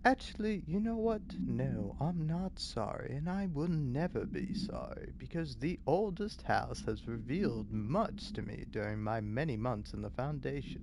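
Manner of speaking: theatrical character reading voice; put-on reading voice. Shown as a demonstration. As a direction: declaim it as a character, pitch swooping. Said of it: "what's, like, a good reading voice?".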